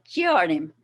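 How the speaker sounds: Giardim with the weight on GI; Giardim, first syllable stressed, falling after. Shown as a demonstration. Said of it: "emphasis on the first syllable".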